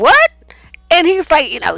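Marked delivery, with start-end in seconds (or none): 0.0-0.3 high, loud disbelief; shocked what. Retold or imitated. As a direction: react in sharp disbelief. Shocked reaction.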